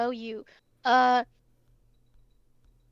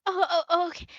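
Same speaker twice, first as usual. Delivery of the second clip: higher, hurried little oh-oh-okay; flustered maid; 5 semitones higher, faster than usual. Acted. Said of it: "Yeah, send him in".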